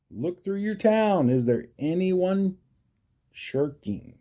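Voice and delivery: a hint of a frantic mayor; worried mayor. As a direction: press the town to work. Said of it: "rushed the mayor".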